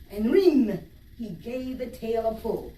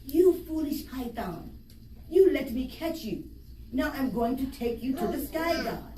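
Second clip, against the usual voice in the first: Anansi crowing; 4 semitones higher than usual. Acted. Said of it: "he cried".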